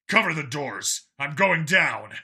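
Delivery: battle shout to his soldier; yelled order. Acted. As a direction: call the order over the gunfire. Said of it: "he yelled at his own satyr".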